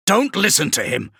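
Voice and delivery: shout. Acted. Kravrek warning his warriors, a loud high shout. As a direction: call out to the men over the demon. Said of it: "Kravrek shouted".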